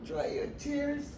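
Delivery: "Dry your tears" rising, voice starting to break; tearful. Real, not acted. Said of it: "forget about this".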